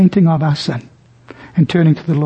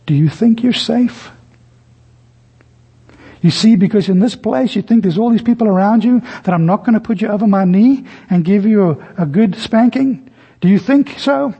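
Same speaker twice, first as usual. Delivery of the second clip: 1 stern whisper; 3 semitones higher than usual. Retold or imitated. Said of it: "she whispered in his ear".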